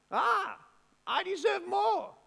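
mock the ungrateful grumble about a raise; mock entitled whine. Preacher mocking an entitled worker's whine over a raise.

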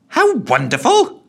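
high, loud, slow mocking "How wonderful?" rising; bellowed. A narrator's reading. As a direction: bellow "How" back in scorn. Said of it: "bellowed the ghost".

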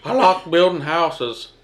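slow, lightly voiced Southern folksy tone; a barely-there impression of an old president, slow; slow, half-hearted Southern imitation; Jimmy Carter impression. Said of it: "That's my impression of Jimmy Carter".

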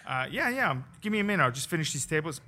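high, loud brush-off; dismissive. Retold or imitated. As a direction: wave him off, half laughing. Quoting himself brushing the waiter off.

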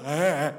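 low imitated groan; mock groan. Mimics reaction to deep weeping.

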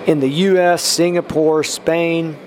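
measured blessing in an even tone; spoken prayer. Real, not acted. Podcast preacher blessing listeners country by country, prayerful. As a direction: pray down a list of places, evenly.

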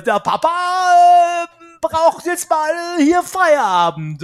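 loud, slow, bossy father; bossy dad. Pretend. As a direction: lay down the law as papa. Bossy dad taking charge.

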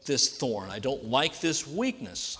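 mild, deliberate plea to God; pleading. Acted. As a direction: draw out the plea with measured urgency. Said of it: "So Paul is pleading".

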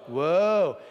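Woe called out loud, a touch shorter; loud woe again. Shown as a demonstration. Preacher repeats Woe with the congregation, loudly. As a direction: call Woe back out with the crowd. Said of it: "Say it again".

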